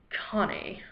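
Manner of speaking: lightly put-on voice of God, soft; a quiet hint of a famous-actor impression; Sean Connery. God addresses the speaker by name, soft impression. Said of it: "saying in your Sean Connery voice".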